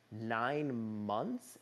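rising, disbelieving question; can't believe what he just heard; incredulous echo. Retold or imitated. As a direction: throw the number back in shock. Echoing doctor in disbelief.

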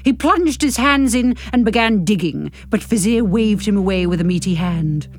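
measured novel-reading voice; story narration. A narrator's reading. Narrator reading a novel to podcast listeners, measured narration. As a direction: read the story out with care. Reads the epilogue aloud.

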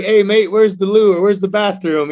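a light hint of Gordon Ramsay's British accent; imitating Gordon Ramsay's British accent, loosely. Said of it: "You know, in his accent".

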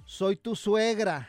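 very slow dramatic reveal. Retold or imitated. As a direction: let it land slowly. Reveal of the mother-in-law.

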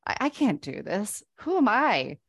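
voicing the inner imposter; retold self-doubt. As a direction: build from doubt to loud mockery of yourself. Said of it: "all of this imposter syndrome".

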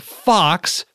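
high, drawn-out hype shout; mock cheer. Host quoting his tweet reply, exaggerated high cheer. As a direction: stretch both words into a big cheer.

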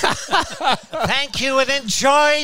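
lightly voiced ballpark PA announcer; stadium announcer. Pretending to be Dan Baker announcing a fan into the ballpark, light announcer voice. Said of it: "Pretend to be Dan Baker".

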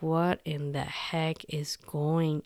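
breathless, half-voiced disbelief; stunned whisper. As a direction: whisper it, shocked and lost. Girl stares stunned at raging man.

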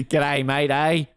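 laughing mock-Australian greeting; really Australian. Host answering the teasing in jokey Australian. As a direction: play up the Australian lightly. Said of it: "Colin got really Australian".

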